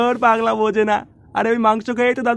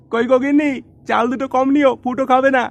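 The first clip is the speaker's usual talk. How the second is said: calling out; 3 semitones higher, 3 dB louder than usual. Acted. Calls out to wife about rice.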